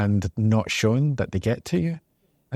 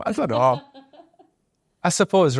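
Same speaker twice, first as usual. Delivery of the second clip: laughing; 10 semitones higher than usual. Real, not acted. Laughs off a question about bravery.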